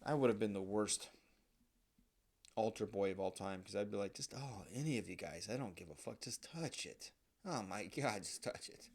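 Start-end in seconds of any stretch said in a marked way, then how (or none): 4.1-8.9 soft, breathy urging whisper fading to unvoiced; hushed urging. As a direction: coax them under your breath. Imagined altar boy urging in church.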